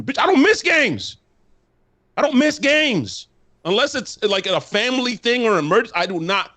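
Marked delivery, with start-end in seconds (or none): 0.0-3.3 MISS hit hard, pitched high; emphatic insistence. Real, not acted. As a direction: slam the word miss, both times. Insisting he never misses games.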